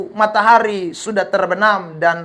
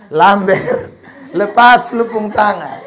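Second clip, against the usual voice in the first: laughing voice of God; 5 dB louder, slower than usual. Retold or imitated. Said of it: "yang ketiga kali Tuhan bilang".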